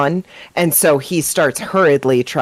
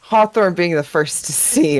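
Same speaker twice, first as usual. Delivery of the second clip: normal talking voice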